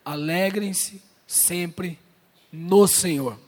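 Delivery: alegrem-se sempre said very slowly and low; slow scripture reading. Shown as a demonstration. Pastor reading Paul's command to the church slowly and reverently. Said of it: "Ele diz assim, ó".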